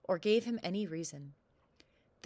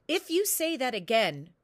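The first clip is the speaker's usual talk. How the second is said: loud, booming royal roar; roaring king; 4 semitones higher, 10 dB louder than usual. Acted. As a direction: roar the threat at him. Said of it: "roared the king".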